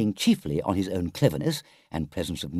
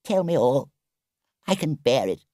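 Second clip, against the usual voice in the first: small, high, brave voice; tearful murmur; 6 semitones higher than usual. A narrator's reading. Toad in tears braces for the news, murmuring. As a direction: bear up bravely through tears. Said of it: "he murmured presently".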